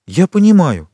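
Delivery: high, loud burst of realisation; sudden exclamation. A narrator's reading. Valentine suddenly guessing grandfather's reason, exclaiming. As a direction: cry out as it suddenly dawns. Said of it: "воскликнула вдруг Валентина".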